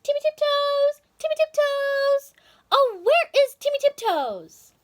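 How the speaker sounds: high, loud calling across the wood; searching wife calling his name. A narrator's reading. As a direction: call out for her lost husband.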